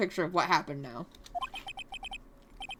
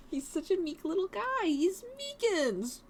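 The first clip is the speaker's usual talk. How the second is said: laughing; 7 semitones higher, 6 dB quieter, slower than usual. Real, not acted. Player laughing at the pun.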